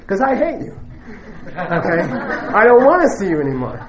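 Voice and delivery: laughs through the mock goodbye; laughing while joking. Teacher jokes about telling an enemy goodbye, laughing.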